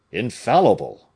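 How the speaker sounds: sharp loud cry of triumph; cried out. A narrator's reading. Aramis crying out his certainty to d'Artagnan, loud. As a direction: call it out with certainty. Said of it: "cried Aramis".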